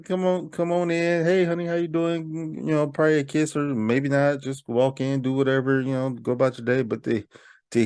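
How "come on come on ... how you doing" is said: imitating husband. Imagining husband coming home.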